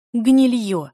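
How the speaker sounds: enraged insult; furious cry. A narrator's reading. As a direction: explode in disgust. Del lunges in rage.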